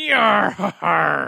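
slow laughing pirate yar. Pretend. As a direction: chuckle through a pirate yar. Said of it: "give us a little bit of it".

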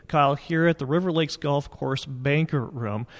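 roomy banquet hall reverb; big hall echo. Real, not acted. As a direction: voice bouncing round an empty hall. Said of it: "if you hear some reverb in the background".

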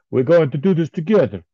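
put-on high, loud Mexican accent. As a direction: quote Ray in a Mexican accent. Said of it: "my Mexican accent".

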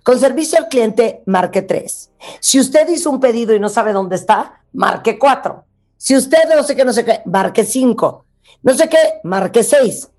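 automated phone menu voice; customer service voice. Retold or imitated. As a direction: read it like a recorded phone menu. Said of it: "un call center". (voz de menú telefónico)

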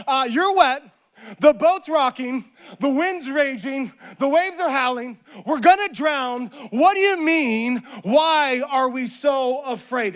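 a touch of mock exasperation; exasperated disciples. Disciples to Jesus as the boat rocks, mildly incredulous. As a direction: stretch the questions in lightly acted disbelief. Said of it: "what the disciples wanted to say".

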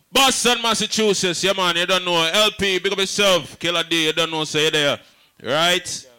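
high, loud shout-outs to the crowd; hyped shout-outs. Real, not acted. MC calling out to the Boston crowd, high and loud. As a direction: fire up the room with names.

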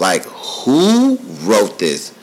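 slow, stunned "who wrote this"; awed. Retold or imitated. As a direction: drag it out in wonder. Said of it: "I'm just saying".

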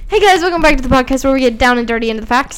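podcast intro voice. Shown as a demonstration. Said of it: "tell me that doesn't flow".

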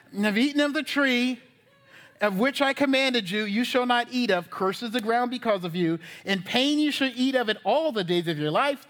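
measured, declamatory Bible reading; scripture reading. Real, not acted. Preacher reading God's curse to the congregation, declamatory scripture reading. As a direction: read each verse out firmly with steady cadence.

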